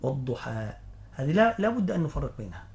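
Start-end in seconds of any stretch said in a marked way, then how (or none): 0.0-0.7 "والضحى" ending on an open long a; final alif. Shown as a demonstration. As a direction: end "والضحى" in a pure alif, no h. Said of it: "تاء المربوطة أو الألف".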